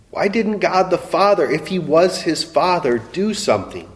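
anguished outcry. Acted. Anguished questions to the congregation.

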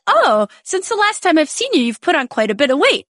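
high, lilting mock-friendly remark; blunt Dutch acquaintance. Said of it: "And they'll be like".

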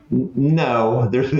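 mock know-it-all correcting someone; collegiate arrogance. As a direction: play the smug student, lightly. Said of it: "in my best collegiate, arrogant, uh, tone".

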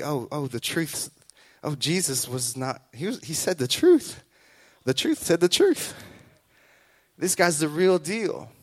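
hushed realization. Retold or imitated. The crowd realizing Jesus was right, hushed awe. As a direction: let it drop to an amazed hush.

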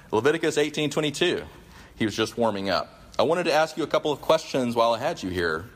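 lively mock rant; pointed, sarcastic rant. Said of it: "his rant".

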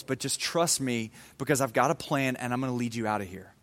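soft, patient reassurance; gently calm the worried man down; patient, kind God. Retold or imitated. God patiently reassures Moses, soft and kind. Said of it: "in his patience and in his kindness".

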